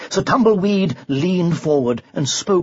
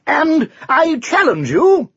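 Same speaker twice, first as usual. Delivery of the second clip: called out loud and clear, higher; loud clear challenge; 12 semitones higher, 4 dB louder, slower than usual. Acted. The knight challenges the champion in front of the crowd, loud and clear. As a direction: ring it out across the field. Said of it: "called out, loudly and clearly".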